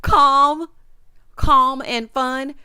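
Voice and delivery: loud scoffing calm, then slow; incredulous mockery. Real, not acted. Host mocking a housemate's description, scoffing. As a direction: repeat it in disbelief.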